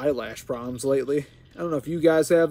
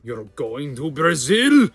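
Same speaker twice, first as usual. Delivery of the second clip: slow, hammed-up yell; meme catchphrase shout; 4 dB louder, slower than usual. Player quoting his own three-second video, mock shout. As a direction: stretch out the last word in a put-on voice. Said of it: "three seconds of me just going".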